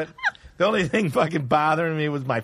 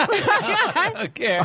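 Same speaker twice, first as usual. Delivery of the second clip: mock indifference; much slower than usual. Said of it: "echoing the line".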